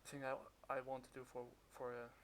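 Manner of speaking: muffled behind a mask; talking through a cloth mask; through a face mask. Real, not acted. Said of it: "I'm kind of wearing a mask right now".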